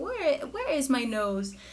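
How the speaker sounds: slow, drawn-out cooing question; baby talk. Shown as a demonstration. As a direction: tease the baby, slow and sing-song.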